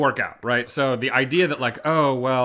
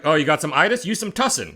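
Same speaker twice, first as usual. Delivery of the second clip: higher, hammed-up redneck twang; rowdy redneck; 3 semitones higher, 3 dB louder than usual. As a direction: play up a rowdy country accent. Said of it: "You sound so redneck when you say itis".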